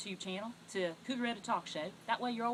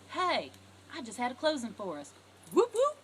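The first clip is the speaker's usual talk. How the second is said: excited whoop whoop; 7 dB louder than usual. Shown as a demonstration. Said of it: "throw down that commission check and say".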